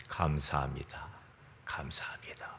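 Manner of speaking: low, soft thanks sinking into a whisper; hushed prayer. Retold or imitated. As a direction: murmur thanks privately to God. Voices own hushed thanks to God.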